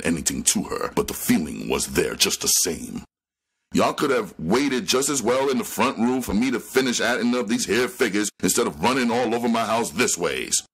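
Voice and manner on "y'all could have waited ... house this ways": put-on harsh old woman. A narrator's reading. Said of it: "stated harshly".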